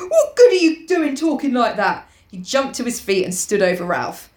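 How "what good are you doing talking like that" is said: high shrill scolding. Acted. Piggy scolding Ralph for his talk, shrill. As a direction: scold in a raised, piercing pitch. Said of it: "said Piggy shrilly".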